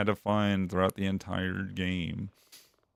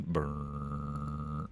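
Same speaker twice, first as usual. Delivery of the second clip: mock shiver sound; 5 semitones lower, 7 dB quieter than usual. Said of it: "turns electric blanket on".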